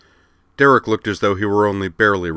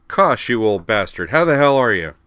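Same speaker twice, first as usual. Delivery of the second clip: loud, high, delighted hail; hearty greeting; 4 semitones higher, 6 dB louder than usual. A narrator's reading. Griffin recognizing his old friend Kosh, loud and hearty. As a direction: boom it out to an old pal.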